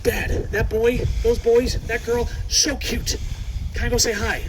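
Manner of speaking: voicing an eager teenage girl; excited teen wolf. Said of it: "She looked at me and she said".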